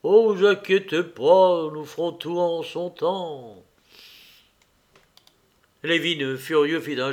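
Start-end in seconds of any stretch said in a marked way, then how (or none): 0.0-3.6 slow, drawn-out reassurance, slightly put on; lightly voiced easygoing steward; placating steward. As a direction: soothe the boss unhurriedly. Steward placates his angry master.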